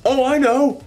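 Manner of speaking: gleeful supervillain monologue. Retold or imitated. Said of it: "supervillain monologue".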